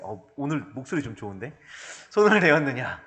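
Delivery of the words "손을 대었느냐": an understated voicing of Jesus; a touch of Jesus asking, weight on 손을. Preacher voicing Jesus asking who touched him, lightly. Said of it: "딱 이렇게 하셨어요".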